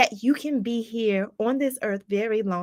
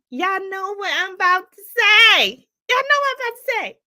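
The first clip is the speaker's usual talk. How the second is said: high, fast teasing build-up; playful hype; 6 semitones higher, 5 dB louder than usual. Real, not acted. Host teasing her viewers before the big announcement, high and fast. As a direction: tease them with what's coming.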